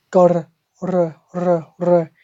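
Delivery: "r" rolled with the tongue tip at the front of the mouth; wet front R. Shown as a demonstration. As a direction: trill each "r" off the tongue tip. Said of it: "tip of the tongue at the front".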